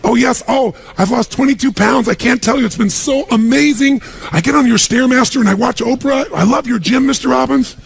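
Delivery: high, breathless imitation of a gushing maid. Maid at home thanking her boss, gushing high voice. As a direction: play the maid, all sweetness and delight.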